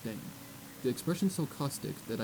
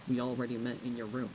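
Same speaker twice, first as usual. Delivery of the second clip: toneless, even delivery; flat voice. Acted. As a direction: say it with no feeling at all. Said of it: "Crimson Storm replied flatly".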